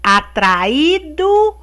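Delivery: slow, drawn-out fable reading; reading to children. A narrator's reading. Teacher reading pupils the lion fable, slow and deliberate storytelling. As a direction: read it out slowly, stretching key words.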